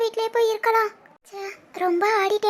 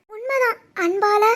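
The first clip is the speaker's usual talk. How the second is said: tearful; slower than usual. Acted. Heartfelt monologue before leaving home.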